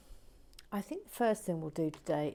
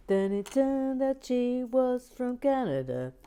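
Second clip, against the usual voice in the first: dramatic reveal; 6 semitones higher, 6 dB louder than usual. Acted.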